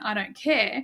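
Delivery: offhand shrug of a line; flippant. Shown as a demonstration. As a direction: toss it off flippantly. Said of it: "like, flippant".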